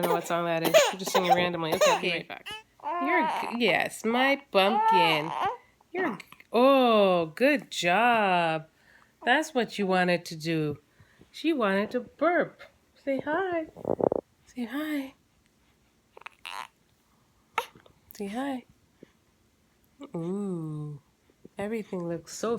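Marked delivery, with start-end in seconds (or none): 1.7-8.7 high, slow cooing praise. Real, not acted. Mother praising baby's burp. 13.0-21.0 high coaxing, fading softer. Real, not acted. Mother prompting baby to greet.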